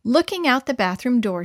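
ordinary delivery

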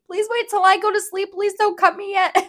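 high-pitched retold begging; frightened plea. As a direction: plead anxiously in a high voice, ready to laugh after. Retold frightened plea before surgery.

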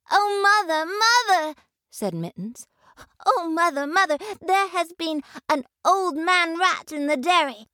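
high, anxious kitten calling Mother; a scared kitten tumbling out her news; frightened kitten. A narrator's reading. Mittens reports to mother.

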